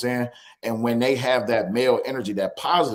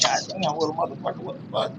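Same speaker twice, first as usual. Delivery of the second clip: shocked reaction; 8 semitones higher, 3 dB louder than usual. Retold or imitated. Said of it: "I'm just like".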